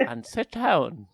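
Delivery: slow, drawn-out "sit down" in a light presidential voice; a hint of the president ordering them; lightly voiced president, slow; Michael D Higgins impression. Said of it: "That was actual Michael D Higgins".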